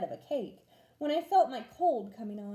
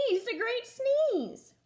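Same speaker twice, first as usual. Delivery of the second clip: slow sneeze; 11 semitones higher, slower than usual. A narrator's reading. Wolf sneezes.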